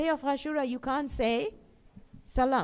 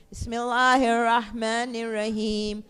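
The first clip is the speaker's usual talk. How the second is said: recitation; 4 semitones lower than usual. Shown as a demonstration. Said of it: "Bismillah, read it with me".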